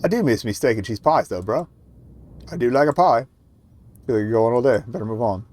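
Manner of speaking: amateur New Zealand builder; loosely Kiwi working bloke; improper Kiwi accent. Acted. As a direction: attempt a matey Kiwi accent. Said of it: "how to do a Kiwi accent".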